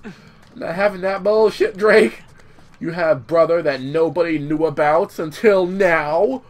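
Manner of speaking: retold telling-off, punched out in mock outrage; mock indignant Elena. Elena refusing Drake's excuse about his brother, mock indignant. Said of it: "Elena wasn't having a Drake excuse".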